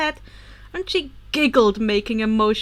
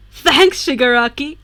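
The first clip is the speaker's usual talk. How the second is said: put-on boyish voice; 9 dB louder than usual. Izuku voiced in story.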